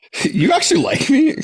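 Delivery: very high, laughing mock disbelief.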